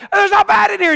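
lightly voiced father, brushing it off; dismissive dad. Father waving off his son's bat scare, mildly dismissive. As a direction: shrug off the kid's fear. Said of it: "And he's like".

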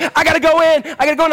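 high, loud urgent insistence; Kiefer voice. Retold or imitated. Preacher as Jack Bauer, urgent and loud. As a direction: push it like a hero about to charge. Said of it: "in my best Kiefer voice".

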